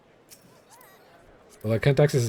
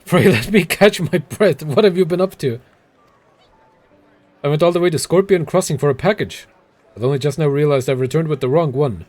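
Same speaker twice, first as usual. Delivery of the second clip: breathless courier; 4 semitones higher, 4 dB louder than usual. Acted. Courier begging the player to fetch the right package, winded and pleading. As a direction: gasp it out like a spent messenger.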